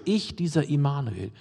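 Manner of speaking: ICH leaned on, then dieser Immanuel; emphatic Ich before the name; stress on ICH. Shown as a demonstration. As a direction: open on a weighty, separate Ich. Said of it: "es ist eine extra Betonung".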